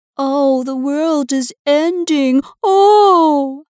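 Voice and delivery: taunting, high, loud, mocking, "oh" drawn out. A narrator reads a man's remark as heard by the narrator: mocking voice. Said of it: "I heard his mocking voice".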